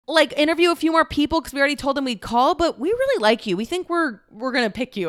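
high-pitched quoted enthusiasm; excited would-be roommates. Retold or imitated. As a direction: lightly imitate eager, friendly flatmates. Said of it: "And they're like".

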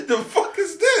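laughing, high-pitched mock fuming. Acting out a friend's reaction to a small burger, mock fuming. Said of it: "He was fuming".

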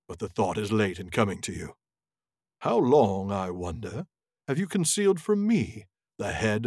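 a touch of a haughty wizard, slowed down; lightly voiced Saruman. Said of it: "a Saruman voice here".

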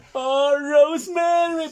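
high, drawn-out wailing cry; crying out a name. Retold or imitated. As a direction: wail the name like a heartbroken kid. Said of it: "el morrito está llorando y está diciendo". (grito lloroso y alargado, agudo)

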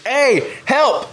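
high, loud distress call; imitated yell for help. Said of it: "I just hear this guy yelling".

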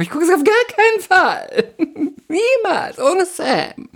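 high, dramatic self-mockery; hammed-up oath, pitched high with a laugh; mock vow. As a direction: swear it in a high mock-solemn voice. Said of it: "mocking her own vow".

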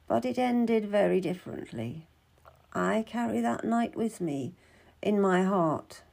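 soft, subdued recollection; lightly voiced wistful midwife. Midwife wipes her eyes recalling eight years ago, subdued. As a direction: recall an old night quietly, with a touch of sorrow. Story figure remembers, tearful scene.

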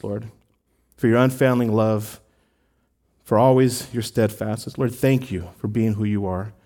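earnest pastoral prayer, unhurried. Real, not acted. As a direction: pray aloud for grieving families. Pastor leads prayer for tragedy.

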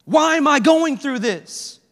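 half-shouted desperate plea, slowing down; crying out. Retold or imitated. Disciples in the storm calling for Jesus, pleading cry. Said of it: "they're crying out like".

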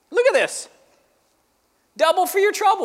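bursting with delight at the promise; excited. Real, not acted. Pastor thrilled by double portion, laughing and high.

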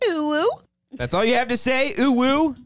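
high, loud hyped hooting; hype ooh ooh. Pretend. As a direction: cheer him on with hoots. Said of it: "You gotta be like".

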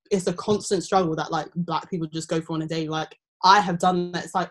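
normal talking voice

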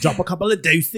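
jokey put-on Cockney; mock Cockney accent. Host jokes about the loo, mock Cockney accent. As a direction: toss it off in fake Cockney. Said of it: "So you like a Cockney accent?".

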